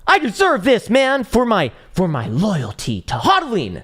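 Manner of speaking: high, loud whiny mock voice; shrill parody of a bullish holder demanding a Santa rally; mocking a greedy holder. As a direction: squeal it like an entitled crypto bro begging for gains. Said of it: "what the fuck did I just hear".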